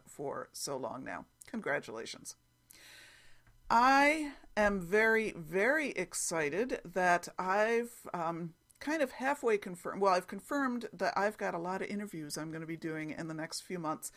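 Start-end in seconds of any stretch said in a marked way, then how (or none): 3.7-10.9 louder, slow, stretched out very very; beaming, emphatic delight; real excitement. Real, not acted. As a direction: sound genuinely thrilled. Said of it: "I'm really excited".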